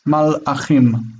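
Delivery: Malachim slowly, with a stop between mal and achim; break in the middle. Shown as a demonstration. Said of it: "the break in the middle".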